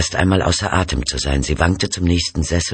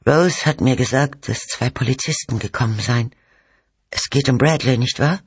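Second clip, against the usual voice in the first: high, thin character voice; frail, anxious wife; 7 semitones higher than usual. Acted. Ailing mother asks about police and Bradley, frail and high. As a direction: voice a weak mother, pitched up.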